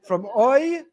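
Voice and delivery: playful punchline. Real, not acted. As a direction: land the pun with a lift.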